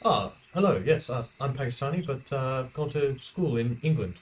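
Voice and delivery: put-on lightly done posh English accent; a touch of upper-class English. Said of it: "like a real posh English accent".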